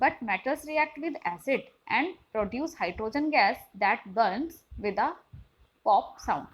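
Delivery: very slow, careful textbook reading; slow classroom read-aloud. Shown as a demonstration. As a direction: spell out the question for students. Reads textbook passage aloud.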